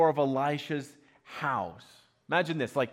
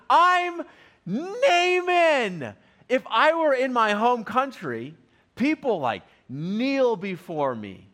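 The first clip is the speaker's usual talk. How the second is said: high, loud, offended boasting; indignant proud Naaman; 5 semitones higher, 4 dB louder than usual. Retold or imitated. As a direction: play the vain general who can't believe the snub. Preacher acts out proud Naaman.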